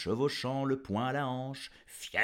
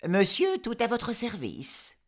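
put-on obliging girl; 9 semitones higher, 4 dB louder than usual. La jeune fille répond.

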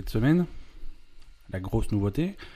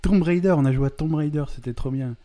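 too much caffeine; 6 semitones higher than usual. Real, not acted. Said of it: "tu t'es pris un rail avant".

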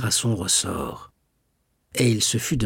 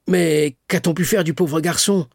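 worried cry; 7 semitones higher, 4 dB louder than usual. A narrator's reading. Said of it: "s'écria Morel".

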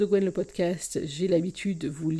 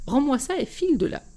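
raised, higher scolding voice; mother shooing him; 6 semitones higher, 6 dB louder than usual. Acted. Mother scolding her son over the turkey, raised and high. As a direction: chase the boy out of the kitchen, half laughing.

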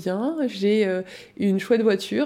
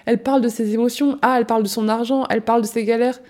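judgmental mocking; 4 semitones higher than usual. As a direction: sneer like a judgy onlooker. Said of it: "qui vont juger quelqu'un qui le fait en mode".

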